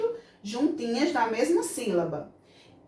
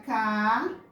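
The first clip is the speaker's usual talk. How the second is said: cadeira broken into syllables ca-dei-ra; split into syllables; 2 semitones lower than usual. Shown as a demonstration. Teacher showing the class how cadeira splits, syllable by syllable. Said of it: "quando eu vou separar a palavra cadeira".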